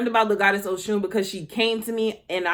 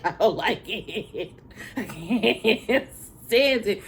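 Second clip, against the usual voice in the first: laughing whine; slower than usual. Retold or imitated. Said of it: "I just be like".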